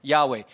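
Yahweh said slowly and clearly, YAH-weh; saying Yahweh. Shown as a demonstration. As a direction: sound out Yahweh. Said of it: "have you heard that before?".

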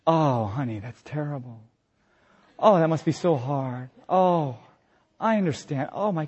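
soft, sympathetic mock wife; empathy mode. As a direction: coo gently like a caring wife. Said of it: "She's in empathy mode".

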